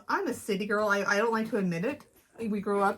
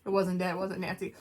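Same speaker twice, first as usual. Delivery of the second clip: retold deadpan reply; stone-faced; 2 semitones lower than usual. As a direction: imitate an unmoved mother-in-law. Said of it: "just stone-faced".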